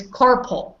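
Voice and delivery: "carpool" said as carpal, with a short "pul" ending; correct CARPAL. Shown as a demonstration. Teacher corrects there is no pool, correct carpal. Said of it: "there is no car and there is no pool".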